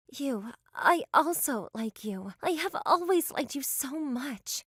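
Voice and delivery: tender confession. Acted. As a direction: confess gently. Returning confession.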